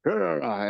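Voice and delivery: lightly hammed wordless Marine grunts; imitated Marine grunting. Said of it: "like, the translation says".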